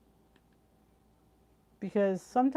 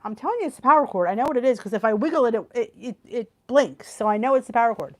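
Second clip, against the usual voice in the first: insistent retort; 6 dB louder, faster than usual. Retold or imitated. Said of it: "I said to him".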